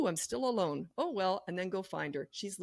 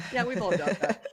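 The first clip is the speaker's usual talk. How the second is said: dismissive; 6 dB louder than usual. Retold or imitated. Repeating parents' dismissive reply.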